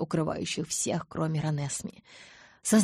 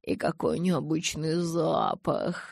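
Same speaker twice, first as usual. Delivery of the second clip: melodic declaiming; slower than usual. Acted. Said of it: "мелодично продекламировал он".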